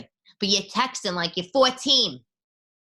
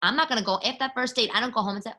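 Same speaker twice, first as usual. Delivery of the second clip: normal talking voice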